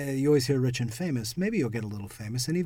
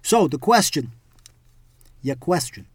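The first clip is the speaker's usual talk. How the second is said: loud New York mobster; New York mob voice; 3 semitones higher, 9 dB louder than usual. Shown as a demonstration. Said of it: "In the New York mob voice".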